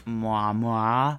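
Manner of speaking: bright sing-song "Moi Moi"; sing-song greeting. Acted. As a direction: call out the greeting playfully. Podcast greeting catchphrase.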